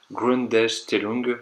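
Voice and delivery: German word sounded out slowly with a French accent; clumsy German accent. Real, not acted. Tutor reading the German option to choose, clumsy German accent. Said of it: "excusez-moi pour l'accent allemand".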